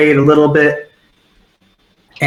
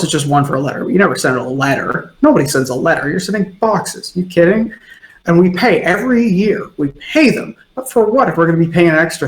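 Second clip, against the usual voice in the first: a hint of a tipsy middle-aged grumbler, rising pitch; drunk gossip; 3 semitones higher than usual. GM voicing drunk patron grumbling about letter costs, mildly tipsy. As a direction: grouse about taxes like a tipsy local.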